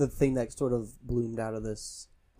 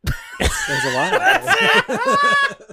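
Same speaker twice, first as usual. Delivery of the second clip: horror trailer voice; 8 dB louder, much slower than usual. Pretend. Mocking trailer line.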